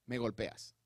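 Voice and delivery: slow, measured asking; slow calm question. Acted. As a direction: ask it slowly and gently. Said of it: "El Señor viene entonces y dice".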